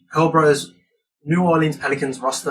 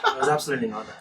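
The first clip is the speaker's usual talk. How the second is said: laughing; 12 semitones higher, 4 dB quieter, much faster than usual. Real, not acted. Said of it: "laughing denial".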